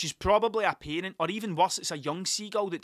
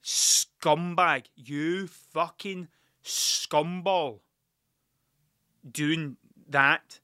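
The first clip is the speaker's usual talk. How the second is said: slow, drawn-out mock contempt; imitated disgusted look; 4 dB louder, much slower than usual. Older couple eyeing the sticker vandal, mock disgust. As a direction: stretch out each insult with scorn. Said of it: "the way they looked at me was like".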